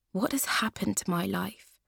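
soft, hushed despair; despairing whisper. Acted. Rachel crying on the train, whispering in despair. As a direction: whisper it to yourself.

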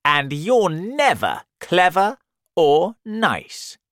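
high, loud scolding; storybook elephant's indignant rebuke; angry elephant. Acted.

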